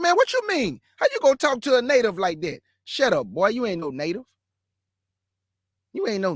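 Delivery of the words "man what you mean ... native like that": higher, fast mock of the boy's protest; mocking the boy's indignant protest, higher and fast. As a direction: mimic him pitched up and rushed. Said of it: "So he said".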